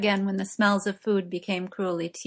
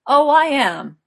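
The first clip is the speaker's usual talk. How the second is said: a loud, higher proud boast; 8 semitones higher, 11 dB louder, slower than usual. A narrator's reading. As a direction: crow it back like a compliment. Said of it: "said Gwaine proudly".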